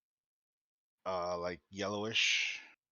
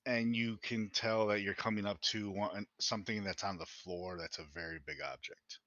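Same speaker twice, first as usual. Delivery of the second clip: game master scene-setting. Acted. Game master describing a smoky room to players, measured narration.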